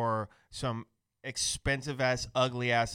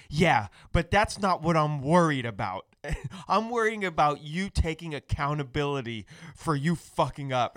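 mock angry rant; 3 semitones higher, 5 dB louder than usual. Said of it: "And you're like".

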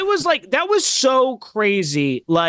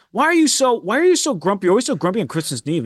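mock yelling; much faster than usual. Mom yelling at one of the maids, mock scolding. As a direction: imitate a scolding, speeding up at the end. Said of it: "like, yelling at her".

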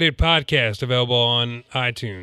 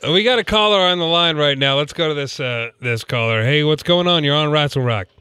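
radio host; 3 dB louder than usual. Pretend. Radio host taking a caller.

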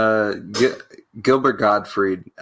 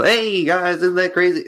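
much higher, louder goofy comic voice; caricature stage persona; 9 semitones higher, 3 dB louder than usual. Shown as a demonstration. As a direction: pitch it way up like a cartoon stand-up. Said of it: "a caricaturized version of myself".

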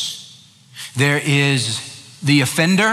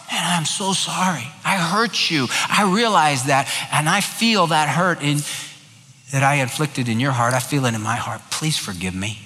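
heartfelt apology. Acted. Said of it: "there has to be from the heart".

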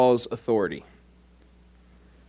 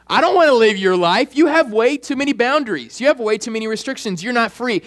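lightly acted objection, pitched up; objecting friend; 6 semitones higher than usual. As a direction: push back like a disapproving friend. Acts out non-Christian friends' objection.

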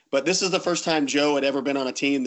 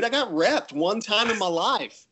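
excited; 6 semitones higher than usual. Real, not acted. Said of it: "I'm excited".

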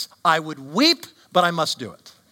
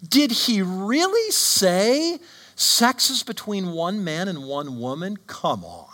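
mocking serpent; 3 semitones higher than usual. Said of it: "where the serpent says to Adam and Eve".

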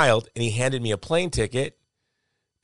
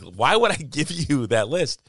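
slow, raised-pitch Wisconsin woman; Wisconsin accent; 5 semitones higher, slower than usual. Retold or imitated. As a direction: question it in slow, high Wisconsin. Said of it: "the thickest Wisconsin accent you ever heard".

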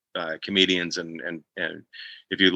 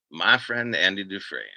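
understated movie-narrator impression; Morgan Freeman; 2 semitones lower, 4 dB quieter than usual. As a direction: murmur it fondly under your breath. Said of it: "just, like, under my breath".

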